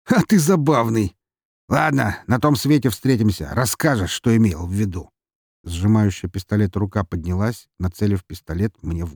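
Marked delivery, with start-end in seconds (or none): 0.1-5.1 amused laugh. Acted. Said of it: "тихо расхохотался".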